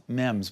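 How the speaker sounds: "memes" rhyming with "gems"; mispronounced "memes". Shown as a demonstration. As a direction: say "memes" with a short e, like "mems". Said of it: "originally thought was pronounced memes".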